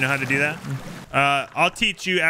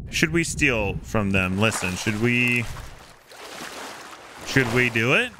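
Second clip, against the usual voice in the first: low conspiratorial; 5 semitones lower, slower than usual. Acted.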